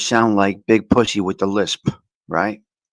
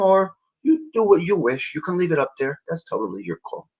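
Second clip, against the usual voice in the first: mock judge's ruling; 4 semitones higher than usual. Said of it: "I would just put it like this, the judge".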